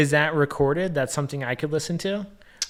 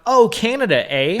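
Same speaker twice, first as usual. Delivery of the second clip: loud, raised-pitch Canadian caricature; mock shout; 7 semitones higher, 5 dB louder than usual. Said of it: "because you shout".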